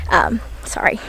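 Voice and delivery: quick unvoiced whisper of a correction; whispered aside. Real, not acted. Vlogger whispering a correction to viewers mid-story, whispered. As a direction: drop to a breathy whisper for the slip.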